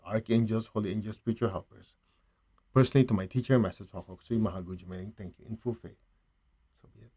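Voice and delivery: measured litany of gratitude, phrase by phrase; prayer of thanks. Real, not acted. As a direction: recite a devotional thanks, fading to a hush. Prayer of thanks closing meditation.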